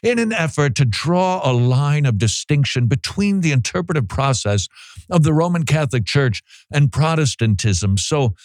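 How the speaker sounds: lightly voiced scholar, measured and rambling; a hint of a long-winded theologian dodging the question; mild impression of an evasive academic; playing N T Wright. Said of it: "I am N T Wright".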